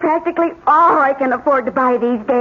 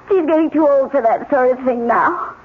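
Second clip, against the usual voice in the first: tearful. Acted. Wife tearful about her mother.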